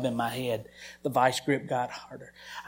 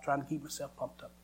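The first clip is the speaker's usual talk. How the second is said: quiet falling repeat; softer echo; 6 dB quieter than usual. Shown as a demonstration. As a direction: repeat it softly, falling away.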